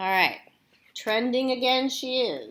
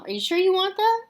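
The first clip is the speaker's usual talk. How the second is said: doubtful mom; 11 semitones higher, 4 dB louder than usual. Acted. Mom doubts strange request.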